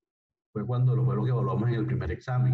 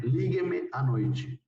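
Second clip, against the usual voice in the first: "lígueme" raised high and drawn out slowly; slow teacher demo; 6 semitones higher, much slower than usual. Shown as a demonstration. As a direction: model "lígueme à noite" high and slow for the class. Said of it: "Yo puedo decir". (demostración lenta y aguda de "lígueme")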